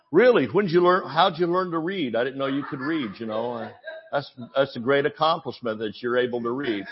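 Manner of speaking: sarcastic mock amazement; mock-impressed teasing. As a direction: tease him like he's a child. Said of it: "then he'd start mocking you".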